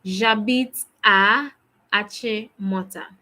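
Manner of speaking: slow, deliberate repeat of J'habite à. Shown as a demonstration. Teacher repeating the answer on request, slow and clear.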